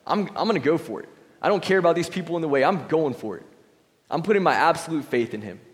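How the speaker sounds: psyched up, finally going for it; the woman deciding to push through the crowd; determined resolve. Retold or imitated. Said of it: "she decided".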